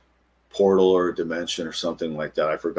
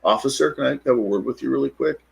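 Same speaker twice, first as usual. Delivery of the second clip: higher-pitched courteous approach to an officer; calm, polite request; 7 semitones higher than usual. Retold or imitated. Man approaching a cop in the drive-through line, calmly polite. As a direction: ask politely, keeping it light and calm. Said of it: "I went up to him very calmly".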